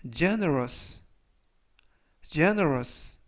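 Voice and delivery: generous said clearly with the stress on the first syllable, GEN-er-ous; model pronunciation. Shown as a demonstration. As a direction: say generous slowly as a model word. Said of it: "generous라고 발음하시면 되겠고요". (발음 시범으로 또박또박)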